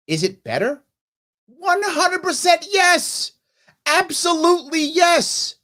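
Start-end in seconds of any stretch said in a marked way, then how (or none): 1.5-5.6 high, loud and slow, almost shouted; a big triumphant yes; emphatic yes. Real, not acted. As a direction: nail the answer with full conviction. Answers own question emphatically.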